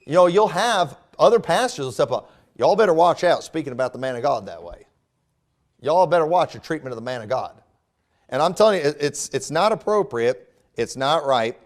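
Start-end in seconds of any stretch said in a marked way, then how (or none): 2.6-7.6 a light mock Southern preacher accent, scolding. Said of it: "when I'm using my Southern accent".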